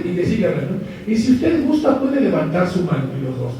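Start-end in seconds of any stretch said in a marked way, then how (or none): 1.1-3.0 hypnotic suggestion. Retold or imitated. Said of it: "ese tonito de voz".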